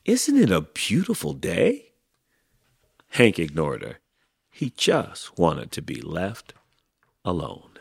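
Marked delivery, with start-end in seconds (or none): 0.1-1.9 high, sing-out friendly call. A narrator's reading. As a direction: chirp it to a neighbour, pitched high. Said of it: "Rosie the Tumbleweed called out".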